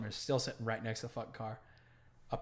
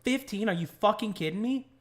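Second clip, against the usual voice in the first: high, loud disbelieving outburst; incredulous, voice shooting up; retold disbelief; 7 semitones higher, 4 dB louder than usual. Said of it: "I was like".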